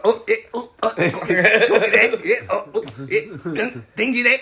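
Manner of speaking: high, short comic fight grunts; kangaroo boxing noises. Acted. Boxer attacked off camera by kangaroo, high yelped noises. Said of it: "all you hear is kangaroo boxing sounds".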